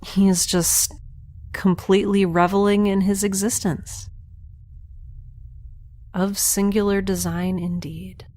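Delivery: steady, hushed recording of the view; awed log narration. Acted. She records a log of her ship from outside, awed narration. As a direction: describe the ship for posterity, in awe.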